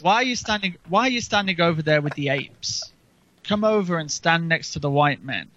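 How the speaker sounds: a hint of a posh rich man; lightly voiced posh sneer. Host quoting a rich man sneering at others, lightly posh. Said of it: "they'd be in the posh voice, actually, not the redneck".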